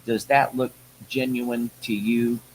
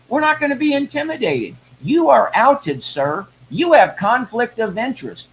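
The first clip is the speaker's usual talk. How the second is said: raised, impassioned rant at a high pitch; 5 semitones higher than usual. Real, not acted. Addressing Merrick Garland in a raised, furious rant. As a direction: hammer him with rising outrage. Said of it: "folks, I'm on a rant".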